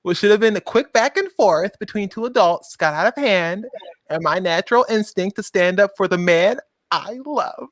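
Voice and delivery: mock-earnest statement with dramatic pauses; mock-solemn apology. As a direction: read it as a hammed-up public apology. Theatrical reading of the woman's apology.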